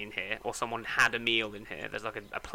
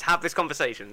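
sarcastic; 2 semitones higher than usual. Real, not acted. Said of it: "by all means".

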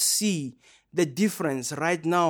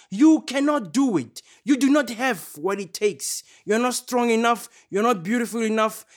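higher, louder jeering voice; mock yelling; 5 semitones higher, 3 dB louder than usual. Preacher voicing the world yelling insults, higher and louder jeering. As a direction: hurl each insult like the world would. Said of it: "The world keeps yelling at us".

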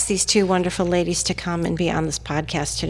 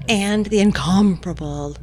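smooth talker. Real, not acted. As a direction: whisper the praise like a schmoozer. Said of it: "talk in a charming voice".

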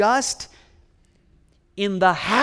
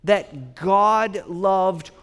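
preaching at full force; 3 semitones higher, 7 dB louder than usual. Acted. Preacher proclaiming God's love to the congregation, full force. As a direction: thunder the good news. Building sermon climax.

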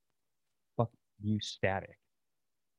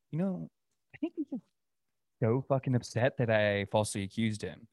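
mock naive voice; 3 dB quieter than usual. Sarcastic falsetto of a gullible onlooker. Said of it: "be like".

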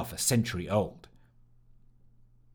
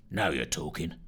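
approving; 8 semitones lower, 5 dB quieter than usual. Acted. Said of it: "approved Fitch".

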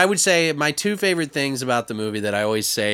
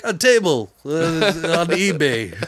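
sheepish; 2 semitones higher than usual. Retold or imitated. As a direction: admit it awkwardly. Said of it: "He's like".

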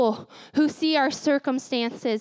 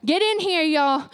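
grandma calling. Retold or imitated. Grandma calls the family together, commanding. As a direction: call everyone in. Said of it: "She would call us together".

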